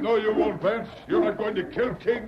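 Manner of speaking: high, defiant yell; defiant shout. Acted. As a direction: shout him down. Defiant during struggle.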